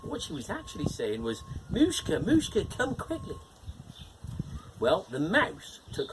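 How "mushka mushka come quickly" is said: high, light call. Acted. Cat calls the mouse over, high calling voice. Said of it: "the cat called the mouse over".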